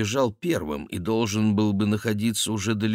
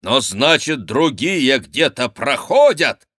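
thundering voice; 4 semitones higher, 5 dB louder, slower than usual. Acted. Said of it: "вскричал он громовым голосом".

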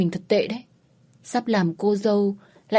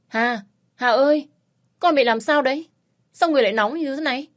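worried mother; 7 semitones higher than usual. A narrator's reading. Mother waking worried daughter.

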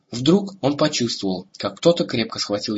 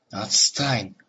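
grumbling. Acted. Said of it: "проворчал он".

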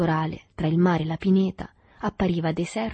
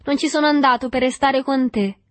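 put-on higher, louder sugary sing-song boy's voice; honeyed sing-song; 7 semitones higher, 7 dB louder than usual. A narrator's reading. The boy sweet-talking the boatman, honeyed and sing-song. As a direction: croon it sweetly, coaxing. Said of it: "Aveva una voce melata e cantante".

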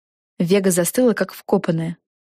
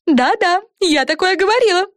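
high, self-satisfied fairy voice; fairy Fren; 12 semitones higher than usual. A narrator's reading. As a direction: Fren chiming in smugly. Фея Френ. (высокий самодовольный голос феи)

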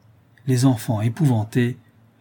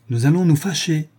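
raised, higher mock-stern warning; blustering threat; 5 semitones higher, 4 dB louder than usual. A narrator's reading. Lapidary scaring his mother-in-law, blustering. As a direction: puff up the voice to scare. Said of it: "en grossissant sa voix pour effrayer".

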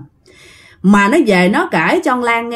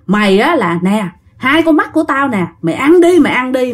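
furious ghost; 2 semitones higher than usual. Acted. Ghost forcing eyes into mouth.

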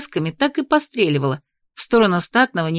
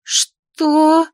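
outraged; 8 semitones higher, 3 dB louder than usual. Acted. Outraged reply to insult.

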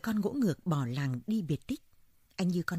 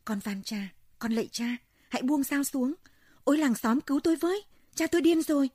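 begging that climbs into a high, loud scream, faster at the end; pleading to screaming; 9 semitones higher, 6 dB louder than usual. Acted. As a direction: start pleading, end shrieking for the village. Son begging, then screaming for help.

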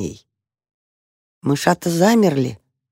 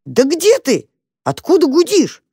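calling out anxiously; 10 semitones higher than usual. A narrator's reading. Tam searching anxiously, calling out.

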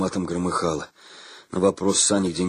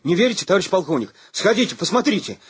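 guileless offer; 10 semitones higher, 3 dB louder than usual. A narrator's reading. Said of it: "простодушно предложил".

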